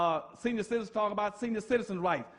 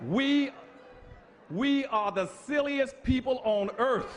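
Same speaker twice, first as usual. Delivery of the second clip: preaching shout; 4 semitones higher, slower than usual. Real, not acted. Preacher crying out to his people about their silliness. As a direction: shout it out to the congregation. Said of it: "preaching outburst".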